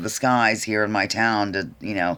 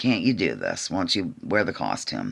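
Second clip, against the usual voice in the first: acted-out, swooping, begging and pleading voice; 4 semitones lower, 5 dB quieter than usual. Retelling how a store worker asked a shopper to wear a mask: imitating someone begging. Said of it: "they're basically begging and pleading".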